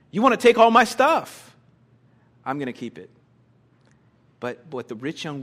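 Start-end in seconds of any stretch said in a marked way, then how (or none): 0.1-3.1 louder, higher mock outrage; indignant protest. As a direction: protest loudly as the affronted rich man. Voices the indignant rich ruler.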